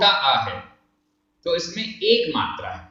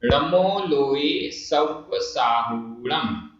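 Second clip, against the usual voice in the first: mantra chanted very slowly and evenly; slow recitation; much slower than usual. Shown as a demonstration. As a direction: recite the line syllable by syllable. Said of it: "पांचवा और अंतिम पद".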